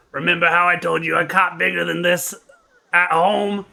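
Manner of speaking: loud gruff call across the dock; shouting. Acted. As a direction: shout it to the boys. Ross Crouton shouts to boys.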